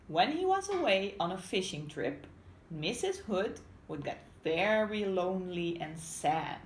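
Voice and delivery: picture-book narration; storybook reading. Acted. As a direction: clear read-aloud voice for young learners. Reads story to children.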